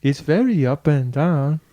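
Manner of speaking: imperfect copy of Yoruba lilt; attempted Yoruba accent. Shown as a demonstration. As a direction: slowly imitate a Yoruba accent. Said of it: "Kind of".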